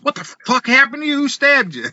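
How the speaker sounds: high, fast, alarmed outburst; shocked dad. Retold or imitated. Dad seeing his blood-covered son, high and shocked. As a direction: blurt it out in high-pitched horror. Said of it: "looked down, he goes".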